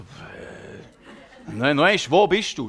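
slow, laughing, baffled echo of the question; confused laughing reply. Retold or imitated. Preacher answers the child in disbelief, slow and laughing. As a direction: laugh it out, not knowing what to answer.

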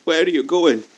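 high frantic screams for help; begging, voice cracking high in terror; desperate screaming. Acted. Abandoned captive screaming.

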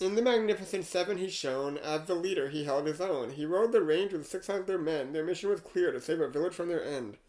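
rhythmic verse reading, lines leaning hard on their openings; poem recitation. Acted. Host reading an AI poem about Yul Brynner, measured recitation. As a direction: recite a rhyming tribute line by line. Reads the rhyming poem aloud.

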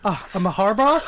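mishearing waiter, laughing. Retold or imitated. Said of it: "And he goes".

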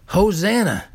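a mildly lifted, ringing Hosanna; crowd's cry. Retold or imitated. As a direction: call it out like a hopeful crowd. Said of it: "the people are crying".

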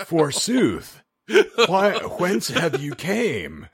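high, slow laughing fake olde English accent; bad British accent. Mocking Keanu in Dracula, laughing fake British accent. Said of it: "putting on a British accent and shitty at it".

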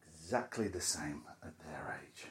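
hushed whispered echo of "Exactly the same at their age"; a soft whispered aside to himself. Real, not acted. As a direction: whisper it back to yourself. Whispered repeat of the line.

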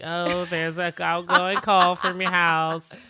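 slow, flat alert voice; slow robotic voice. Retold or imitated. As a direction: announce it like a camera alert. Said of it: "his nanny cam was like".

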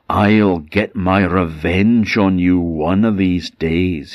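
slow, deliberate threat; menacing curse. Acted. The Black Laird cursing Mister James, slow and menacing. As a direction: lay the curse slowly on him.

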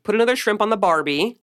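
plain American accent, R sounded in Barbie. Shown as a demonstration. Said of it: "I'm doing the American accent".

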